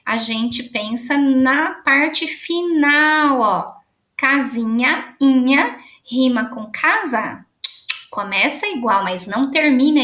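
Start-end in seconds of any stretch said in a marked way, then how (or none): 0.1-5.8 slow, leaning on inha in Casinha; stressing the ending. Shown as a demonstration. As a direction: point to the ending with your voice. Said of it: "Lembra que quando a gente rima".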